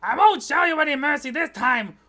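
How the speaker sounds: loud, high jeer at a rookie; taunting prosecutor. Acted. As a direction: throw down a challenge in court. Acting the taunting rival prosecutor.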